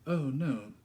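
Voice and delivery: high, loud and proud; proud young girl. Acted. Girl proudly tells vicar she has the book. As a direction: say it with a touch of pride. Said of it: "not without pride".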